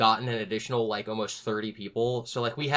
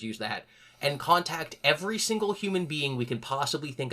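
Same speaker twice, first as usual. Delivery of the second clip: pitched-up hype, talking fast over each other's ideas; excited urging; 4 semitones higher than usual. Retold or imitated. Old coworker pushing the narrator to go way overboard. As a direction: voice up high and pushing, insisting they go way overboard. Friend urging bigger plan.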